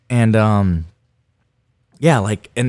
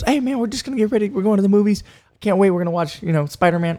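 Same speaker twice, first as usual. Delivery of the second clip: much higher, carefree buddy voice; Hugo's voice; 9 semitones higher than usual. Retold or imitated. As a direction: play the clueless friend who suspects nothing. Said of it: "He goes".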